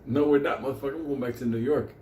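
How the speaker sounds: telling his friend no way; retold retort. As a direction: snap back at him defiantly. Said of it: "I was like".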